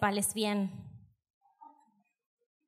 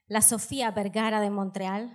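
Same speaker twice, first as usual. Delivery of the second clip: full Spanish accent on the name; Spanish pronunciation; 2 semitones lower than usual. Shown as a demonstration. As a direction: say it as in Spanish, rolling along. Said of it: "Je vais vous traduire".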